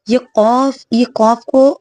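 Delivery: قوف said thick, back-of-throat qaaf; heavy qaaf. Shown as a demonstration. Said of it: "اس قوف کو موٹا پڑھنا ہوتا ہے".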